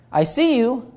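half-hearted parrot squawk of I see you; a hint of a talking parrot; bad parrot voice. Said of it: "that's not a really great parrot voice".

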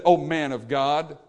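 slow, mocking "O man of God"; drawn out with a sneer; sarcastic. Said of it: "sarcasm again".

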